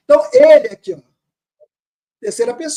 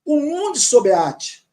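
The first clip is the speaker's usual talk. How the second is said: 1 slow reading; 3 semitones higher, slower than usual. Shown as a demonstration. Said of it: "Aí ele fala".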